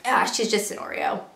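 offhand, casual dismissal; nonchalant. Retold or imitated. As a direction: toss it off like it's nothing. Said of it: "say this so nonchalantly".

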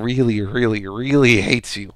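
each "really" stretched out slowly; drawn-out emphasis. Acted. Deadpool telling Logan how Deathstrike hates him, drawn-out emphasis. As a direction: lean long on every "really".

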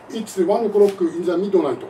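slow, loud katakana English imitation; mock his Japanese English, syllable by syllable; Japanese-English accent. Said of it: "まず発音が全然日本語英語ですよね". (日本語英語の発音で、ゆっくり大きく真似して)

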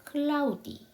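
"cloudy" with an 아-우 glide, ending in 이; demonstrated pronunciation. Shown as a demonstration. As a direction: model "cloudy" clearly, closing on an ee sound. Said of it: "이렇게 발음이 나죠".

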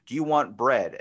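loud, confrontational misreading of a text; wrong tone. Acted. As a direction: blurt it like a hostile challenge. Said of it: "they pull the wrong tone out of it".

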